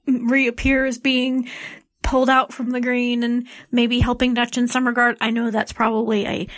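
recorded on a cell phone in a closet; small muffled closet sound, phone mic; closet recording. Real, not acted. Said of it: "I am coming to you from the closet of my hotel room".

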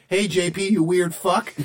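high rowdy party caller; mock voicemail shout. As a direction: yell it like a drunk friend on voicemail. Quoting voicemail in movie.

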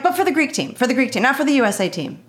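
high, quickening protest; defensive clarifying. Retold or imitated. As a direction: insist on it in a high, hurried voice. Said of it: "That's how I was with him".

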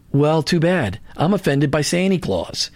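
lightly put-on New York accent; a touch of New York in the voice. Defiant reply to people offended by a manger scene, New York accent. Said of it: "say that with a New York accent".

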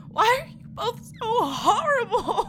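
tearful wail; crying. Acted. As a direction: sob out the question. Grieving woman betrayed by both.

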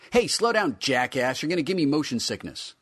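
high, loud cranky figure; cranky toy voice. Acted. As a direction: snap irritably. Figure snaps being spun.

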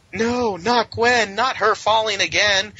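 high, slow hammed-up wail; mock dramatic despair. Mocking the characters' cry over Gwen, hammed-up high wail. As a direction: overplay the tragedy. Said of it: "they're like".

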